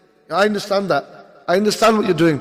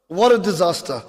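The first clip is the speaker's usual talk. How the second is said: resigned. Real, not acted.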